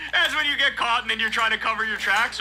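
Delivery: talking through laughter; laughing. Real, not acted. Host mocking the cover-up while laughing. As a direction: explain it while still laughing.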